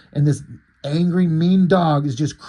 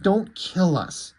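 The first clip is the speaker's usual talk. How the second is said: begging; 2 semitones higher, slower than usual. Retold or imitated. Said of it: "He's, like, begging for his life".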